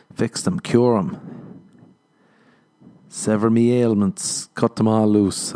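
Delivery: slow, grand, mock-solemn pleading; milk each phrase slowly like a hammed-up prayer; mock dramatic plea. Caller begging the dentist to cure his tooth pain, slow hammed-up plea.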